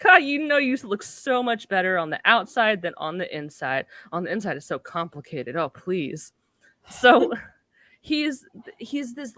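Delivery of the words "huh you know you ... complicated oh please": put-on childlike jovial voice. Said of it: "jovial kind of, like, childlike thing".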